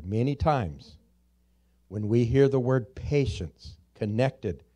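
deliberate slow repeat with pauses; "Many times" drawn out at a slow teaching pace. Shown as a demonstration. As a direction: spell it out slowly, word by word. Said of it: "repeat that a little bit slower".

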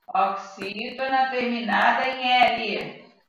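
drawn-out words, paced to the pen; slow dictation. Real, not acted. Teacher writing the explanation for anel, slow dictation. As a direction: say it slowly as you write it down. Writing second answer aloud.

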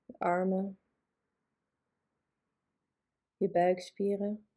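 calm guided relaxation, long pauses between phrases; unhurried yoga nidra guidance; guided meditation. Acted. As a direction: lead a body relaxation, leaving space after each phrase.

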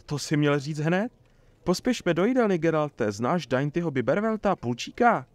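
high-pitched, eager excitement; delighted. A narrator's reading. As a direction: hurry a friend along with glee. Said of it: "zaradoval se Marigold". (radostně vzrušeně)

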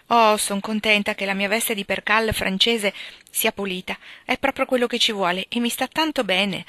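pleased. Acted. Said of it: "osservò Meg contenta".

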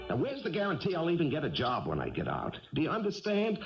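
defensive arguing. Acted. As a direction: argue back, pitch jumping on the key words. Quarrel over going back to school.

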